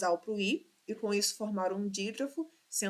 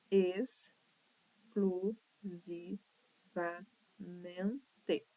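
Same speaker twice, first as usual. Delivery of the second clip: exclusivamente sílaba por sílaba; 2 semitones lower, 5 dB quieter, much slower than usual. Shown as a demonstration. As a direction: split exclusivamente into slow, separate syllables. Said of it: "apresenta seis sílabas". (exclusivamente silabado, bem pausado)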